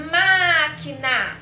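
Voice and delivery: loud, drawn-out MÁQUINA with MÁ held long; calling a neighbour. Shown as a demonstration. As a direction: call out MÁQUINA slowly, stress on the first syllable. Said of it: "como se a gente estivesse chamando o vizinho".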